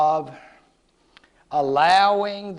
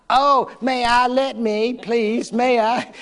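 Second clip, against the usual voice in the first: higher and louder, eager pleading; eager student; 5 semitones higher, 3 dB louder than usual. Retold or imitated. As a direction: beg to recite like a keen pupil. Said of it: "she will say".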